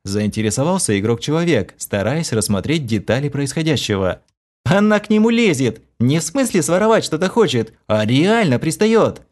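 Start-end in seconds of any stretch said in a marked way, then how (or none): 4.6-9.2 amazed chuckle. A narrator's reading. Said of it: "С поражённым смешком".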